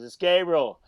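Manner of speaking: retold call from outside; calling back. Kid answering through the locked door, calling back.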